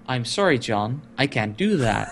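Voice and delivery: low, measured refusal; lightly voiced calm machine; imitated computer voice. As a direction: refuse politely, low and even. Ship pilot quoting film computer.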